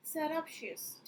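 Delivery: slow, syllable by syllable "Surreptitious"; careful pronunciation. Shown as a demonstration. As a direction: spell out "Surreptitious" slowly, ser-rep-TI-shus. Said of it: "इसका pronunciation क्या है?". ("Surreptitious" धीरे-धीरे, साफ़ उच्चारण में)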